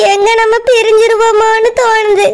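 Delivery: fearful words broken by crying; weeping out her fear; tearful. Acted. Anu confides her fear of separation to Surya, crying. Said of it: "ஏன் அழுதுட்டு இருக்க".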